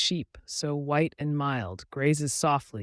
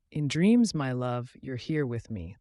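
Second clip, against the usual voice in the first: soothing mother duck; 4 dB louder than usual. Acted. Mother duck soothing her duckling. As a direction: soothe the little one. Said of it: "the mother duck soothed".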